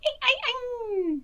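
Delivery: high drawn-out howling; wolf howl. Acted. Wolf howling at the farmer, high and drawn out. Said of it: "Zemo howled".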